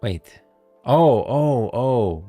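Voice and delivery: high, drawn-out ohs as it clicks; sudden realization. Real, not acted. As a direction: let it dawn on you, pitch jumping up. Sudden realization while reacting to lines.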